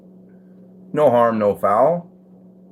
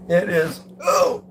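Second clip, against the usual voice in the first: surprised; 8 semitones higher, slower than usual. Real, not acted. Finds the play button.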